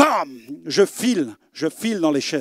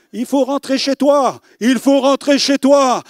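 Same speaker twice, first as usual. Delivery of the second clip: insistent pastor; 5 semitones higher, 4 dB louder, slower than usual. Retold or imitated.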